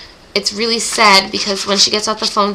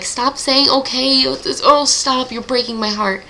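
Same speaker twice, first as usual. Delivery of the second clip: higher-pitched mock-distressed plea; heartbroken pleading; 4 semitones higher than usual. Reader pleads with the crying heroine to stop, heartbroken. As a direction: beg them to stop, voice lifted.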